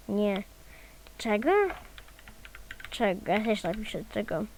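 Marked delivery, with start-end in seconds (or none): 1.2-1.5 Czego? asked with the pitch rising at the end; rising question. Shown as a demonstration. Reading Cleverbot's reply aloud as a rising question. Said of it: "będziemy przedrzeźniać". 2.9-3.3 Czego? with the pitch falling flat at the end; falling question. Shown as a demonstration. Mocking Cleverbot with a flat falling question. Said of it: "będziemy przedrzeźniać".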